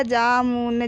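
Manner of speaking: low जामुन broken into जा, मु, न; teacher spelling out जामुन in pieces; syllable by syllable. Shown as a demonstration. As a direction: sound out जामुन with a full final न. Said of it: "तो इस प्रकार पढ़ेंगे हम।".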